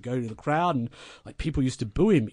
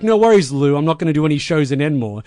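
cheerful misunderstanding; 7 dB louder than usual. Retold or imitated. Mark mishearing Lou.

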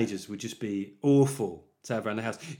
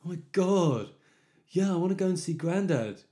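loud, higher-pitched mock teenage whinge; 5 semitones higher, 5 dB louder than usual.

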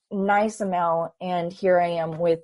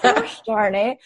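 laughing groan. Retold or imitated. Retold reaction, laughing at herself.

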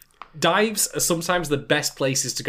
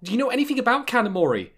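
ominous voice; 8 semitones higher than usual. Acted. Ominous line about Kanamori.

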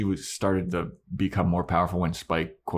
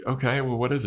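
higher-pitched prompting question; questioning Buffy; 6 semitones higher, faster than usual. Acted. Buffy asking Spike about his info, high and questioning. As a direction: ask it in a raised imitation voice. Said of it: "And she's like".

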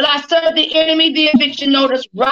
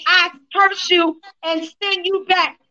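laying a curse. Real, not acted. Casting out spirits.

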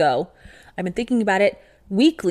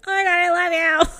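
higher, fast, squealed gush; mock gushing fan; 11 semitones higher, faster than usual. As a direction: gush like a starstruck fan at the stage.

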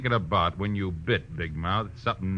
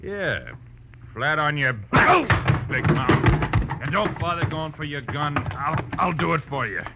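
loud, raised, forceful thug order; threatening tough guy; 6 semitones higher, 6 dB louder than usual. Acted. Thug ordering detective down as he disarms him, loud threat. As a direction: bellow it while overpowering someone.

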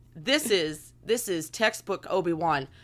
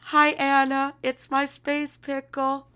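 enthusiastic reading; 6 semitones higher, slower than usual. Shown as a demonstration. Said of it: "I'll read it with enthusiasm".

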